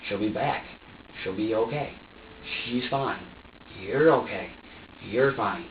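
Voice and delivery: low, measured self-soothing; steady yourself with short reassurances. Retold or imitated. Parent talking to myself that it'll be okay, low self-reassurance. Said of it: "talk to myself and just tell me".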